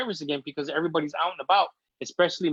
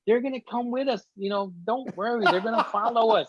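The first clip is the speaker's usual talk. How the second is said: higher-pitched, pleading reassurance; retold reassurance; 6 semitones higher than usual. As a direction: re-enact soothing an upset wife. Reassures his crying wife in story.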